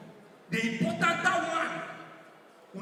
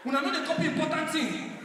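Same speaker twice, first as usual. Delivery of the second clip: laughing shout; 5 semitones higher than usual. Acted. Punchline catchphrase with laughter.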